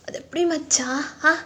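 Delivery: put-on hurt drunken rant, uneven and halting; Taehyung. Drunk man telling his friend how she left him, wounded. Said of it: "ஒரு மாதிரி உடைஞ்சு போன மாதிரி இருக்கான் தயாங்".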